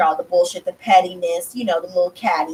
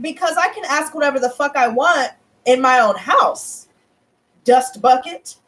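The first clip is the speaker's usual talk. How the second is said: retold firm comeback, pitched up; putting foot down; 3 semitones higher than usual. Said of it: "the foot down like that".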